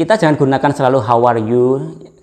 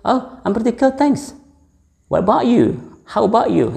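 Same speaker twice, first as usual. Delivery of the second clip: much higher, bright "Oh, I'm pretty good, thanks"; upbeat reply; 9 semitones higher, faster than usual. Shown as a demonstration. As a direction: answer cheerfully in a lifted voice. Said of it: "or we can say". (jawaban ceria dengan nada jauh lebih tinggi)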